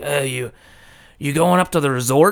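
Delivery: put-on guttural old man voice, broken Japanese accent. Retelling what a pickup truck driver said pulling up, guttural old man's broken Japanese accent. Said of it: "like really old man, guttural Japanese".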